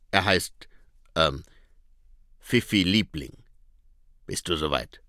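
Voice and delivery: low rough dog voice; a scruffy street dog muttering; talking dog. A narrator's reading. Gaspode dog voice. (tiefe, raue Hundestimme)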